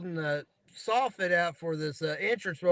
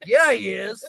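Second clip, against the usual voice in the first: laughing; 7 dB louder, slower than usual. Real, not acted. Laughing agreement about the cranky boss.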